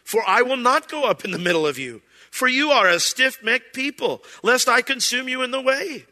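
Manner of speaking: voice of the Lord. Acted. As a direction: speak as God warning a stubborn people. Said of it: "And the Lord explains".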